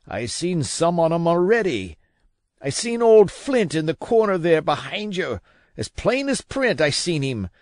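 high, urgent, raving sea dog; a man terrified of the horrors; desperate old captain. A narrator's reading. Captain frantic for rum.

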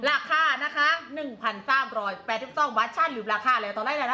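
Southern Thai sales pitch; live-selling patter with Southern Thai tones; Southern Thai dialect. Shown as a demonstration. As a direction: greet buyers in a Southern Thai accent. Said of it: "เดี๋ยวตั๊กพูดใต้นะ".

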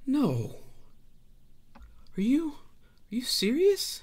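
horrified mother. Acted. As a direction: gasp it out in shocked disbelief. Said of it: "Harkina's like".

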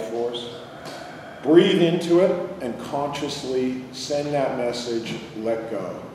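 calm, unhurried meditation guide; guided meditation. Real, not acted. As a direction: lead them inward with long pauses. Leads a body-scan meditation.

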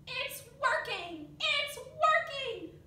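high, loud, building excitement; excited cheering. Acted. Dilly cheering her friends on, excited and high. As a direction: cheer as the plan succeeds.

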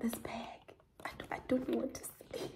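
hushed, near-whisper, overcome; mock emotional. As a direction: whisper as if too moved to speak. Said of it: "I'm getting so emotional".

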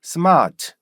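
smart begun on an open "seu", r dropped; started with 스. Shown as a demonstration. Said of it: "스로 시작했죠". (스로 시작하는 R 없는 smart)

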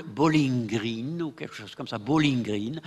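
put-on bowling green with a French accent; French-accented English, bowling green; early French attempt. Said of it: "sans doute qu'au début, on disait".

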